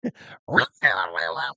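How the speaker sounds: imitated screech of a trodden-on cat; cat yowl. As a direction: yowl like a startled cat tearing past. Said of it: "You stepped on the cat".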